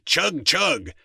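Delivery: playful tractor imitation; tractor noise. A narrator's reading. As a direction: chug along like a toy tractor.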